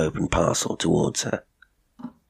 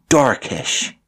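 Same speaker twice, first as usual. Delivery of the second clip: higher, flustered answer; stumbling; 7 semitones higher, 4 dB louder than usual. A narrator's reading. Cook caught off guard by the question, stumbling. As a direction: offer it uncertainly, taken by surprise. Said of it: "she stumbled".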